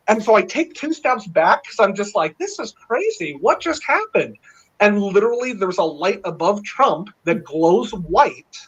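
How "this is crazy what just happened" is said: higher, amazed retold exclamation; stunned disbelief. Man recalling stepping back from Trump, higher stunned disbelief. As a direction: replay the shock of the moment.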